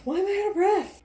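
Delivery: high, loud wail of complaint; over-the-top exasperated outcry; escalated exasperation. Real, not acted. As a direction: blow it up into a high shout.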